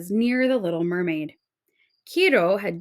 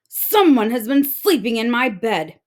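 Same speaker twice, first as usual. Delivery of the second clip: angry father octopus; 7 dB louder than usual. Acted.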